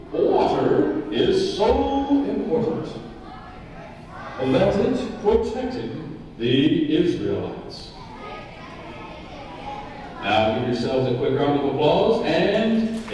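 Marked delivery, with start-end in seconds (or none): 0.1-7.9 big booming announcer read, slow. Shown as a demonstration. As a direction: boom it out like a ring announcer. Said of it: "Use your announcer voice".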